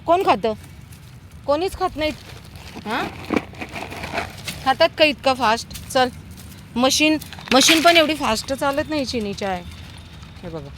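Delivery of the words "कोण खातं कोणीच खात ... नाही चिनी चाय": playful chiding. Real, not acted. Teasing dog for gulping food.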